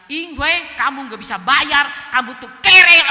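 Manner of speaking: loud quote climbing to a yell; shouted accusation. Retold or imitated. Speaker repeating the friend's insult face to face, shouted accusation. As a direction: re-enact throwing insults back, building to a shout.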